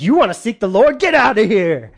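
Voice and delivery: rude dismissal. Retold or imitated. Gehazi shooing widow away.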